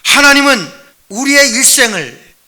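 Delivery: usual speaking voice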